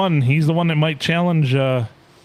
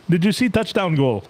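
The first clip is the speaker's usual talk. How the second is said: put-on Indian accent; 5 semitones higher than usual. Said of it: "in an Indian accent".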